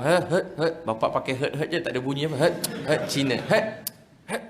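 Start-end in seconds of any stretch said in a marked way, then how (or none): 0.1-0.7 short, sharp mock grunts of a stern father; gruff wordless grunts. Father grumbling at son massaging his feet, gruff grunts. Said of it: "Bapak pula garang". 2.5-4.4 short breathy grunts, imitating father's call; curt "shoo" noises with no real voice; cat-shooing noise. Father calling his son like shooing a cat, curt grunts. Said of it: "dia panggil macam halau kucing je".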